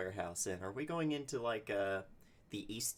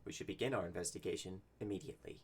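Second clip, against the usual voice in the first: measured, understated formal delivery; reserved adventurer, lightly acted; lightly voiced formal character; faster than usual. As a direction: speak formally, with restraint. Player speaks as formal adventurer character.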